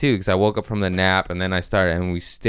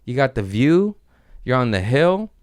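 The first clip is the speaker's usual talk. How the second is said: awed delight; 4 semitones higher than usual. Retold or imitated.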